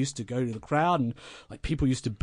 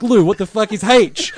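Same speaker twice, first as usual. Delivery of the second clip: put-on exasperated kid; 7 semitones higher, 9 dB louder than usual. Young Mark confused in car.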